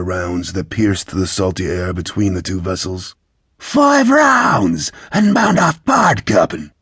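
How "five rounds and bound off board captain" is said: high-pitched lookout's yell; shouted warning. A narrator's reading. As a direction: cry it down from the masthead. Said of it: "Sarad shouted from the heights of the masts".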